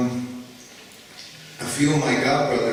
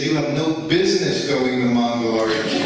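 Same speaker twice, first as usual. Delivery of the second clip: retold angry yell; 5 dB louder than usual. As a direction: bark it out like a guru who was kept waiting. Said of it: "he's screaming at me".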